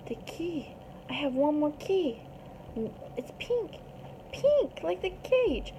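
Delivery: lightly voiced gorilla, high-pitched; aufgeregter Gorilla. A narrator's reading. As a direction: pitch jumps up on each discovery. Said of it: "The gorilla's like".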